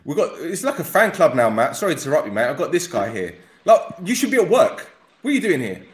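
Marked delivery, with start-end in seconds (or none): 3.6-5.8 high, loud playful scolding; mock telling-off. Host teasing the fan caller who should be at work, mock scolding. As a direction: pretend to tell him off for skipping work.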